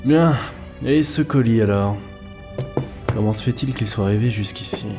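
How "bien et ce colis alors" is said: loud, lifted start, thinking aloud; brisk self-talk. Acted. Man turning to a mystery parcel, brisk and loud. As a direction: turn briskly to the next matter.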